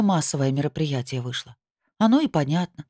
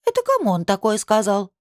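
displeased; 5 semitones higher than usual. Acted. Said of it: "недовольно спросила её подружка".

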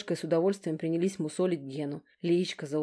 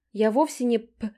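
catty retort; 5 semitones higher, 5 dB louder than usual. A narrator's reading. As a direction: lay each word on like a barb.

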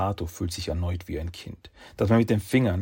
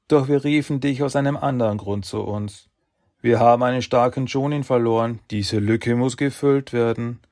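commanding sage voice; 3 semitones higher, 5 dB louder than usual. Acted. Sages give orders.

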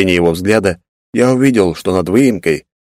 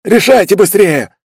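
slow, loud high snarl; angry growl; 13 semitones higher, 5 dB louder, slower than usual. Acted. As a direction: bark it out impatiently. Anamu continues snarling.

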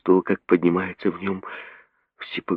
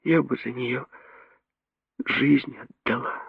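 higher, soft and slow; soft whisper; 8 semitones higher, 6 dB quieter than usual. A narrator's reading. Mary whispering she'd give her life. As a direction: let it hang in a hush. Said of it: "прошептала Мэри".

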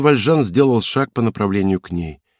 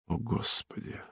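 despairing whisper; 16 dB quieter than usual. Acted. Valjean in despair.

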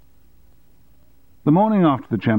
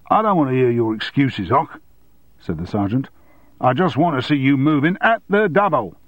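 stern drill sergeant, raised voice; hoarse officer shouting orders; 4 semitones higher than usual. Acted.

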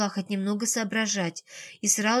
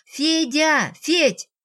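high, louder call down a corridor; 6 semitones higher, 6 dB louder, much slower than usual. A narrator's reading. Ксения calls Федя from the corridor, high and loud. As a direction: shout for someone in another room. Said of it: "крикнула в коридор".

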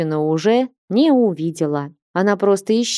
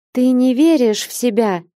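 bright ringing voice, a bit higher; ringing mermaid voice; 4 semitones higher than usual. Acted. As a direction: ring out the question lightly. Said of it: "звонким голосом уточнила русалка".

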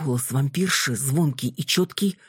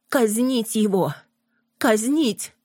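shrill hysterical cry of execute him; hysterical shout; 7 semitones higher, slower than usual. A narrator's reading. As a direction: scream for the execution. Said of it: "от истерического выкрика".

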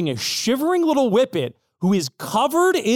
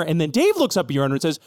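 usual speaking voice

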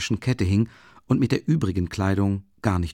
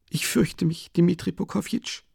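schüchternes Geständnis; 9 semitones higher than usual. A narrator's reading. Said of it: "gestand sie ihm ... schüchtern".

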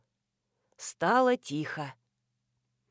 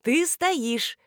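delighted; 5 semitones higher than usual. A narrator's reading. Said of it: "восхитилась я".

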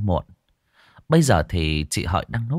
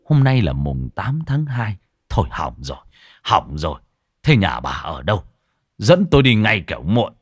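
urgent monk. Acted. Monk ordering the wife to take him home, urgent.

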